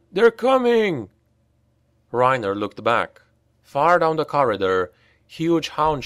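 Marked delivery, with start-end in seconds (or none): 0.1-1.1 high, loud, slow terrified wail; panicked wail. A narrator's reading. Oscar warns of hounds, terrified wail. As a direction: scream the warning in terror.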